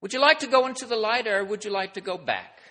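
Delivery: a hint of a small girl asking gently; little girl voice. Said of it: "in a voice of a young girl".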